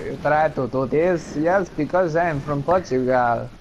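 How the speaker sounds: put-on a loose stab at a Portuguese accent; attempted Portuguese accent. Co-host claims to be from Portugal, attempted Portuguese accent. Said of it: "I don't know what Portugal accent sounds like".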